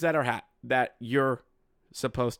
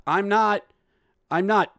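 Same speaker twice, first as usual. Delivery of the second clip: higher, lightly acted kid denial; protesting older brother; 6 semitones higher, 4 dB louder than usual. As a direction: protest like an accused sibling. Bullying brother denying it.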